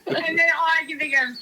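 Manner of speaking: high, giggly, barely holding it together; helpless laughter. Real, not acted. Host explaining why she lost it, laughing helplessly. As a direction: talk up high through the laughing. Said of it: "I can't stop laughing".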